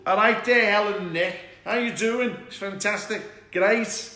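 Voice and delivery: loud, high Scouse greeting; Liverpool accent. Acted. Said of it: "I had to pretend I lived in".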